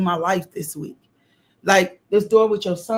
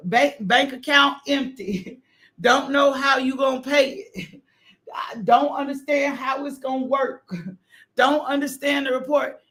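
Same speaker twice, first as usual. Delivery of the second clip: laughing; 7 semitones higher than usual. Real, not acted. Laughing while preaching.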